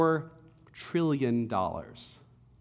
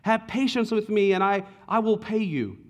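pleading; 6 semitones higher than usual. Acted. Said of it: "fell down and pleaded".

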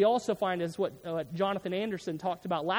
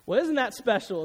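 church lady impression; 3 semitones higher, 3 dB louder than usual. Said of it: "is what she'd say".

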